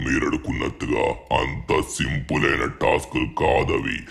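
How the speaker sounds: breathy, whispered monster threat; vampire villain voice. Acted. Trapped vampire warning the two boys, whispered menace. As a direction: hiss the warning like a hidden monster.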